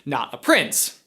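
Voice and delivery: lively, punchy host delivery; emphatic scripted commentary; presenter read. Acted. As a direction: explain it briskly to camera. Reads scripted line to camera.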